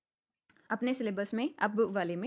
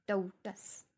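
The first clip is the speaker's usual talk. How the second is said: टऊ टस with more force on टऊ; stress on first syllable; much slower than usual. Shown as a demonstration. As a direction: lean on टऊ, keep टस brief. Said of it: "उसको बोलने में ज़्यादा force लगी है". (टऊ टस में टऊ पर ज़ोर)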